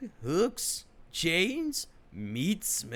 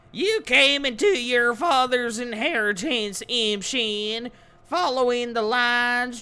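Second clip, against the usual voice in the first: loud, higher grand invocation; booming spirit voice; 10 semitones higher, 7 dB louder than usual. Acted. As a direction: proclaim it like chanting spirits. Spirits praise the player.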